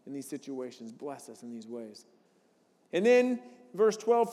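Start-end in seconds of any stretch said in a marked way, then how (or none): 0.1-2.1 praying. Retold or imitated.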